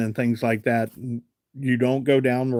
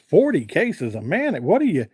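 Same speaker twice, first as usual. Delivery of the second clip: higher-pitched mock disbelief; incredulous retort; 4 semitones higher than usual. Seller retelling the huge mayonnaise order back to the buyer, incredulous. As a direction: retell it as a taken-aback seller, voice raised in pitch. Acted astonished reply in a story.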